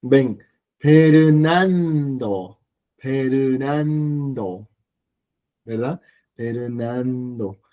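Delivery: Fernando said as perunando, drawn out very slowly; Korean-style name. Shown as a demonstration. Teacher demonstrates the Korean form of the name to the class, slowly. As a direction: stretch Fernando into pe-ru-nan-do. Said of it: "La N suelta se coloca debajo".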